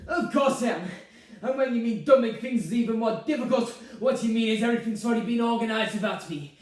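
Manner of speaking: loud, high, indignant mother; aggrieved tirade. Acted. Mother accusing son of plotting, aggrieved. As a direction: pile up grievances in full voice.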